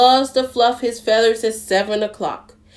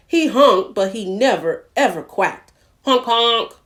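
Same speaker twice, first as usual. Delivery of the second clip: story reading. A narrator's reading. Reads a picture book to children.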